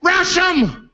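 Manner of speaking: high-pitched mock rallying yell; hammed-up scream to attack; screamed battle cry. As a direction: cry out to lead a charge. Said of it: "He screamed out".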